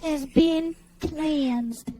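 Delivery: very slow, eerie pronouncement; spooky medium voice. Acted. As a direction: draw it out like a psychic medium. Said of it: "grandma from Poltergeist".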